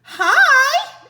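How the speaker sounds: high, loud cheerful call; shout. Acted. Annie calling to the pterodon, loud and high. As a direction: call out brightly across the distance. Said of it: "Annie shouted".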